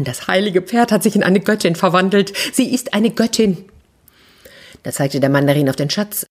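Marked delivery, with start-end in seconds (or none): 0.0-3.6 higher, awestruck declaration; awed voice. Acted. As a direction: announce it in hushed awe. Crowd in awe.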